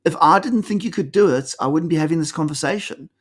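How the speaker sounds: high, kindly "no, no, don't be sorry"; a mentor easing a shaken new manager; reassuring boss. Retold or imitated. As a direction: reassure him gently, lifting the voice. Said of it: "He's like".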